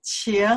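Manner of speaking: 请 as a slow Mandarin third-tone demo. Shown as a demonstration. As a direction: let 请 dip and rise slowly. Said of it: "the third tone".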